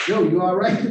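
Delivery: loud, high retold call; loud retold call to the back row. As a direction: call out to a sleeping man. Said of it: "And I went".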